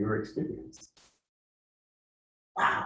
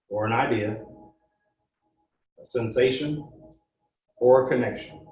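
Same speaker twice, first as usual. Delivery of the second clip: guided meditation. Acted. Guide leading the group through a meditation, calm and steady. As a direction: ease the group into the feeling, unhurried.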